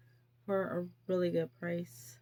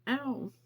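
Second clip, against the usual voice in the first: pained ow; 5 semitones higher than usual. Real, not acted. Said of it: "That was cold".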